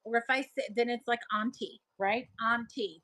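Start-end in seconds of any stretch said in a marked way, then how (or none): 1.3-1.8 "auntie" with an open ah; AHN-tee pronunciation. Shown as a demonstration. Showing viewers her other form, "auntie" pronounced ahn-tee. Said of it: "that's what I would say". 2.4-3.0 "Auntie" with an open ah; AHN-tee pronunciation. Shown as a demonstration. Confirming her own usage, "Auntie" pronounced ahn-tee. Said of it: "that's what I would say".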